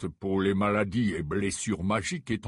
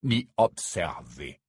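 slow, low and cold addition; a dry afterthought; curt; 6 semitones lower, slower than usual. Acted. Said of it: "ajouta-t-il". (sèchement, lentement)

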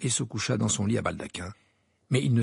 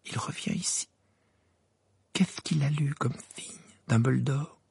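perplexed; 2 semitones higher than usual. A narrator's reading. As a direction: puzzle it out under your breath. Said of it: "l'air perplexe". (perplexe, à mi-voix)

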